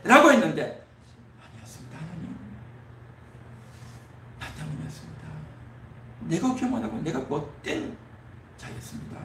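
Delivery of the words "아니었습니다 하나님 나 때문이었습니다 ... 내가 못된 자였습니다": hushed, breathy prayer of confession to God; whispered confession. Acted. Preacher voicing a sinner's prayer to God, whispered.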